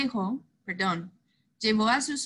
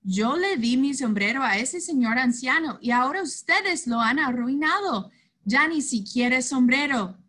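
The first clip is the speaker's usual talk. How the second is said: a touch of anger, a bit louder; angry; 3 semitones higher, 4 dB louder than usual. Acted. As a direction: scold the boys, upset. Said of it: "El tío Nacho se enojó".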